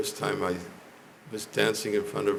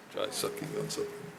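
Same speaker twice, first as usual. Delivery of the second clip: hoarse whisper; 10 semitones lower, 6 dB quieter than usual. Real, not acted. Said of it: "I'm gonna stop losing my voice".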